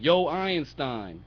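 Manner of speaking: slow, drawn-out sarcastic jibe; making fun. Acted. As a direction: hail a fool as a genius. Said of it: "when you make fun of someone".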